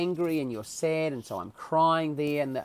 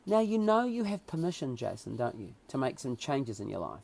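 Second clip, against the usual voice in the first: reassuring; 2 semitones lower, 5 dB quieter than usual. Retold or imitated. Bearded man counsels the heart patient, reassuring. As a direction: imitate a calm, wise visitor. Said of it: "and very reassuring".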